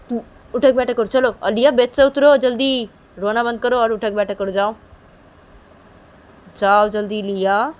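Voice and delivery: loud commanding mother; bossy orders. Acted. Mother ordering Piyu and Liya to do sit-ups. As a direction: bark out the punishment.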